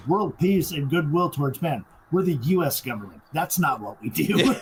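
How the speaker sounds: mock-indignant repeat of a demand; incredulous retort. Government agent rejecting the demand, incredulous. Retold agent scoffing at the wish.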